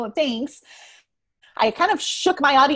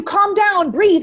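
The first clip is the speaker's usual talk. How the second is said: loud, raised, bossy order; mock command; 6 semitones higher, 7 dB louder, much slower than usual. Coach mimicking bad advice to the upset, loud and insistent. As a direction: order it loudly like someone no help at all.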